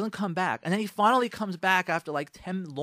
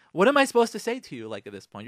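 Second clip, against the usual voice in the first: exasperated outburst; 3 semitones higher, 6 dB louder, faster than usual. Retold or imitated. Wife snapping at husband on anniversary, exasperated. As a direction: fire it back, fed up.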